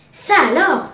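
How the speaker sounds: loud, high burst of amazement; astonished exclamation. A narrator's reading. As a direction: cry out in surprise. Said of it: "s'écria-t-il".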